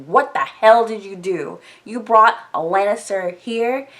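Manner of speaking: retold angry demand, mildly hammed-up; indignant scolding. Lysa scolding her sister once they're alone, mock indignant.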